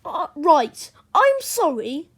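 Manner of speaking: high, loud, flustered apology; acted out-of-puff excuse; panting. A narrator's reading. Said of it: "panted Henry".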